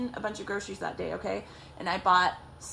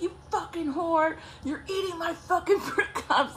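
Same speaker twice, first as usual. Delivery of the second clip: high mock outrage breaking into a laugh; hammed-up high accusation; retold angry insult; 7 semitones higher than usual. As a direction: imitate his tirade, pitched up, amused. Ex insults sister, teller laughs.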